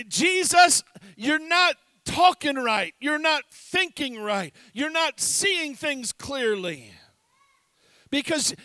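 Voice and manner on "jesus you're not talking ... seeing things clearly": heated rebuke. Retold or imitated. Peter scolding Jesus openly, raised and heated. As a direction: scold him loudly.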